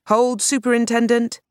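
loud high call, held long. A narrator's reading. Fred calls to the police outside. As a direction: call through the door to stop them. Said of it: "Fred called".

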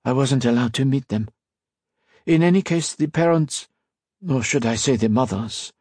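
lightly voiced old priest, explaining; a hint of an elderly father remembering; old blind priest.

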